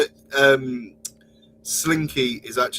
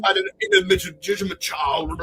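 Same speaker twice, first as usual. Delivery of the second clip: Boris Johnson; 5 semitones higher than usual. Acted. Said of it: "can you do Boris Johnson".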